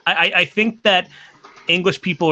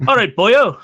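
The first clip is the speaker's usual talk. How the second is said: higher, Englishy take on Welsh; too-English Welsh attempt; 5 semitones higher, 3 dB louder than usual. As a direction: aim at Welsh, land near English. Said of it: "a little too Englishy".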